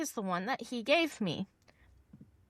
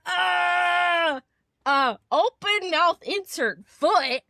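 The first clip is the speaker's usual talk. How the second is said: higher and louder, hammed-up panicked embarrassment; flustered self-quote; 8 semitones higher, 5 dB louder, slower than usual. Caller realizing her mistake to the client, flustered and loud. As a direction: blurt it out flustered, half laughing at yourself. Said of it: "And I'm like".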